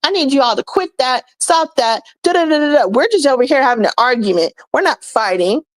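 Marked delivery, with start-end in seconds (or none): 0.0-2.8 a lightly voiced nagging Karen, a touch higher; hammed-up busybody scolding; mock Karen. Imitating a nosy Karen telling arguers to quit. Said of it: "You would be Karen".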